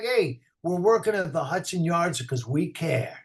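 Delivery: a softened New York accent in an ad read; just a hint of New York in a friendly pitch; toned-down New York accent for a commercial; New York light. Shown as a demonstration. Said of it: "It's like New York light".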